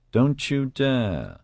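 mock-stern growl from a mother; growled warning. A narrator's reading. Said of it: "Liz growled".

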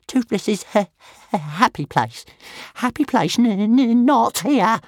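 scared dragon stammering about his happy place, high. A narrator's reading. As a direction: stutter it out between puffs of smoke.

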